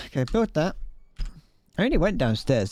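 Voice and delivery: slightly out of breath; breathy after the stairs. Real, not acted. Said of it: "Don't know why I'm out of breath".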